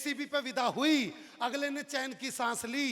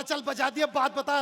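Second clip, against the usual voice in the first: louder, impatient retort; annoyed raised voice; irritated husband; 3 semitones higher, 7 dB louder than usual. Acted. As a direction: brush her off sharply. Husband snaps at wailing wife.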